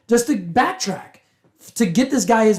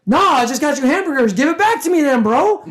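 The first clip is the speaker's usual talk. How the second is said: mild mock anger; 5 semitones higher than usual. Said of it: "This homeless dude was pissed".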